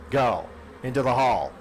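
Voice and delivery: loud, fed-up shooing; angry order. Acted. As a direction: chase him out of the room. Ordering puking man out.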